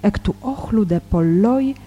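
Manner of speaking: measured Greek scripture reading, pausing between phrases. Real, not acted. Teacher reads the Gospel in Greek to listeners, measured scripture reading. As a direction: read the Gospel aloud, phrase by phrase.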